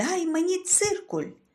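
sudden, loud, very high-pitched shouted blurt. A boy in math class who can't say please turns to his deskmate: shouted to the whole class. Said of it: "неочікувано для себе вигукнув на весь клас".

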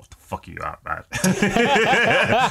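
laughing, swooping, very high and very slow drawl. Retelling Timothy Leary's reaction to Ram Dass sitting cross-legged: imitating Timothy Leary laughing. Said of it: "you can see Timothy Leary just laughing, going".

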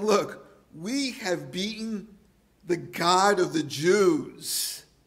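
slow, haughty, very arrogant tone. Speaker acts out a confident man drinking from the golden goblet, mock-arrogant tone. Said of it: "in a very arrogant tone".

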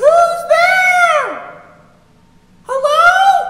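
very high, very loud shrill yell, hello drawn out. In an acted scene, a character hears noises while others try to sleep, yelling. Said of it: "Chica, stop yelling!".

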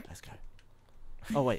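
hushed whisper. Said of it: "Why are you whispering?".

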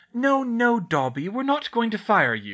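pressing, insistent tone. Narrator reading a character's reply to the crying elf, insisting. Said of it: "Hermione insisted".

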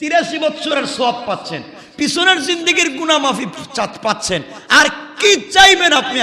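fervent, high, rousing preacher shout.

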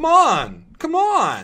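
bad put-on American accent. Urging a door open in a co-op game: crappy american accent. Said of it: "doing it with that crappy American accent".

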